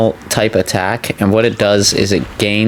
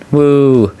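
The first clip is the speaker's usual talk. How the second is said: happy whoop; 6 semitones higher, 4 dB louder than usual. Real, not acted. Cheering after finding him.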